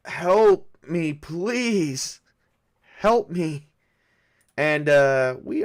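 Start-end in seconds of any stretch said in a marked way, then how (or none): 0.1-3.7 loud high plea; screaming for help. Acted. Creature keeps pleading.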